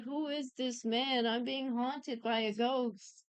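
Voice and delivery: slow, drawn-out retold lament; hammed-up haunted despair, slowly; mock tearful wail. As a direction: imitate a distraught man, dragging the words out. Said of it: "crying and being like".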